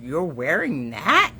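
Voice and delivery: a parrot mimicking a boyfriend's doubtful question. Parrot copying the boyfriend's doubt at her outfit, lightly voiced. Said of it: "In my boyfriend's voice".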